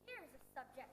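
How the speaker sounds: put-on a regal, commanding old king; pompous king. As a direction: speak as a vain monarch on his throne. King character voice.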